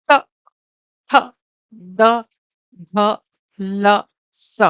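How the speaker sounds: "इ, ई, च, छ, ज, झ, य, श" spaced out one by one for the class to repeat; clear letter drill. Shown as a demonstration. Teacher reads each palatal letter slowly so students repeat. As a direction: pause after each letter so pupils can echo it. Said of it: "all of you to say the letters along with me".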